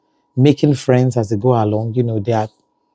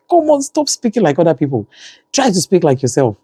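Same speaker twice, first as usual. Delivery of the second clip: higher-pitched pleading correction, retold; exasperated scolding; 6 semitones higher than usual. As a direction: plead with the child to stop, in mock exasperation. Mother retelling scolding of daughter.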